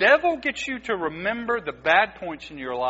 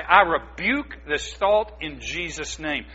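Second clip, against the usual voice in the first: slow, deliberate command to a dark thought; slow firm rebuke; 3 dB louder, slower than usual. Shown as a demonstration. Preacher showing the church how to rebuke, slow and firm. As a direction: say it slowly and firmly, like an order. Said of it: "you just stand up and you say".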